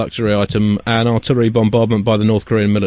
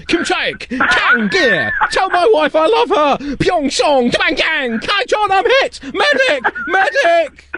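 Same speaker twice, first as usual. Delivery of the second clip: yelling like a soldier under fire; shouting while wounded; much slower than usual. Pretend. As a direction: scream the names like you've just been hit. War film place-name battle cry.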